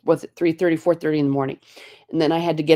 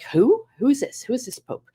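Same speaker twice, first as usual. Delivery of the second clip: high-pitched, retold bewilderment; baffled questioning; 8 semitones higher than usual. Passengers hearing the new Pope announced, baffled. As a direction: ask in high, puzzled disbelief.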